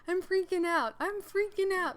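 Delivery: imitating her own high, loud panicked cry; retold panic. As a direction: wail it twice in mock panic. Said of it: "All he is hearing".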